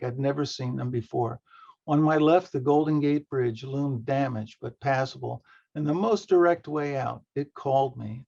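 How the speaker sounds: steady read-aloud narration of a short story. A narrator's reading. Reads own story aloud.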